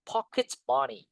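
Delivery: Pocket said as "POK-it", second vowel an I. Shown as a demonstration. Teacher showing Pocket is read with I, "pokit". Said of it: "Dibaca I".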